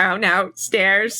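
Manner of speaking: put-on robotic monotone voice. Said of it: "Piper speaks like a robot".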